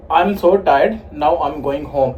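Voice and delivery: measured Indian-English example for a learner; Indian accent demo. Shown as a demonstration. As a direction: model the line in an Indian accent. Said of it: "In Indian accent".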